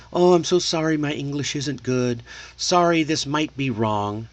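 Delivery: mock apologetic learner; lightly acted, sheepish apology. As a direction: apologize as an unsure speaker would. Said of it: "apologizing and using long apologies".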